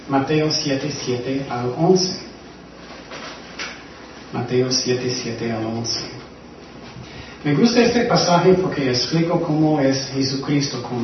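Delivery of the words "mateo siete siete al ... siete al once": slow repeat. Shown as a demonstration. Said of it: "Vamos a Mateo".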